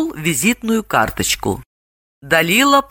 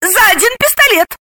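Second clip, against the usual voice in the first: clarifying; 3 dB louder than usual. A narrator's reading. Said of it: "и уточнила".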